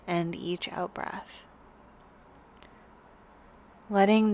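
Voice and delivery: calm, unhurried yoga teacher guidance; guided yoga meditation. Real, not acted. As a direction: guide them gently into rest, with long pauses between phrases. Leads a restorative yoga meditation.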